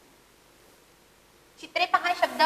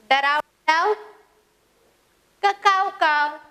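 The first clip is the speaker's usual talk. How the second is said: animal call choice; 2 semitones higher, 4 dB louder than usual. Shown as a demonstration. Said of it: "कावळा कसं ओरडतो?".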